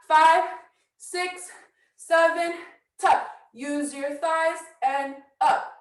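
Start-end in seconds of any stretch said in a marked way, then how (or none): 0.1-3.3 shouted count. Real, not acted.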